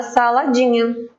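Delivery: ordinary talk, nothing marked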